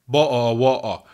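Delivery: loud British glottal "bo'o wo'o"; mock British accent. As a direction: drop the t's in "bo'o wo'o", British-style. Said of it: "sounds really, really funny when you say".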